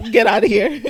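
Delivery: loud mock dismissal; mock shooing. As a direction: shoo the kid away, half-joking. Shooing an imagined talking kid.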